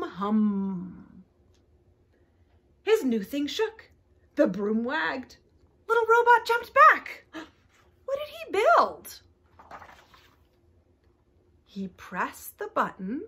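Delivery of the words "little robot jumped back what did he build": startled gasp. A narrator's reading. Suspense in story.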